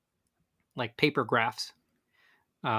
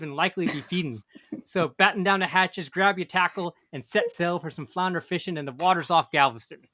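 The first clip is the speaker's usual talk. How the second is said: pirate voice; 4 semitones higher than usual. Pretend. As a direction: ham it up like a sea pirate. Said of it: "That's my, my pirate voice right there".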